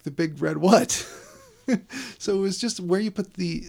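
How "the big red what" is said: mock puzzled. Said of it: "it's like".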